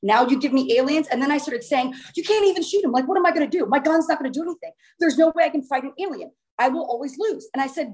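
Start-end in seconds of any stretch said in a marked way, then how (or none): 2.1-7.5 higher-pitched frantic protest; mock-distraught, rising pitch without shouting; retold freak-out. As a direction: imitate yourself panicking over hopeless odds. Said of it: "but I freak out".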